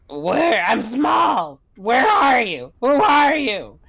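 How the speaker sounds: high, searching call; high-pitched in-character shout. Acted. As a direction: holler out to someone unseen. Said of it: "I'm just gonna shout out".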